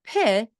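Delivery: pit with the final sound clipped; a child's mispronunciation, pit for pig; child's error. Shown as a demonstration. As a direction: say pit, with the last consonant barely there. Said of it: "When they say pit".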